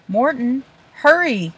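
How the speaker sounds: high, loud urgent plea; begging. A narrator's reading. Olive pleads with a stubborn boy to hurry, loud high begging. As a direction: yank him along with your voice. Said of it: "Olive begged".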